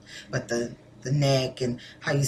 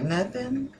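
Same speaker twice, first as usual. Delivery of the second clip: dismissive reply; 8 semitones higher, 7 dB quieter than usual. Acted. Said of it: "You're like".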